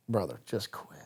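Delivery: a retold half-voiced aside, barely spoken; under my breath. Muttering to a struggling captain during selection, under his breath. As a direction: mutter it low so he can't hear. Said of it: "like, under my breath".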